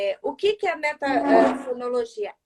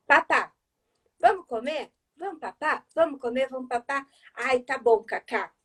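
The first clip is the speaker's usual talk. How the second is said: a light hint of a mother coaxing her toddler to eat; mother coaxing child. Shown as a demonstration. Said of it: "você vai fazer assim".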